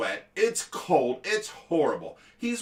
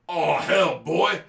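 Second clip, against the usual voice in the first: gruff dad; 7 dB louder, slower than usual. Retold or imitated. Dad dismisses the pleading kid.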